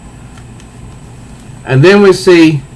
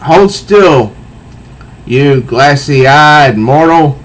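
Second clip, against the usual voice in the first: creature menace; much slower than usual. Acted. Cat creature menacing line.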